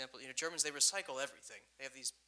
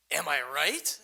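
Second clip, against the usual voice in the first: loud challenge; 12 dB louder, slower than usual. Retold or imitated. Impatient old man in line.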